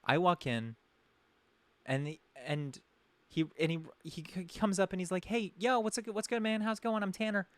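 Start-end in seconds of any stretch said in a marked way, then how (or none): 5.2-7.5 higher, pumped-up party bro; bro greeting. Retold or imitated. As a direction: act out the eager host, lightly. Retelling Tanner's greeting again.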